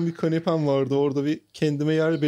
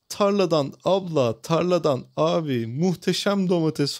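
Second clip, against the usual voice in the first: imitating vendor's cry; slower than usual. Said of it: "falan diye bağırdı".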